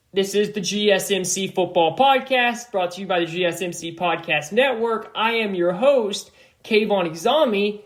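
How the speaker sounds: announcer read of his podcast open; show intro announcer voice. Retold or imitated. Host opening his podcast for listeners, announcer voice. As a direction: boom it out like the top of the show. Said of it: "I start out the show, as you all know, going".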